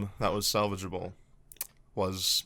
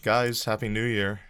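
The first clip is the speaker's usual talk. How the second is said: whisper. Acted. Whispering a late new year greeting to the guys. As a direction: whisper it like a secret. Jokey change of subject.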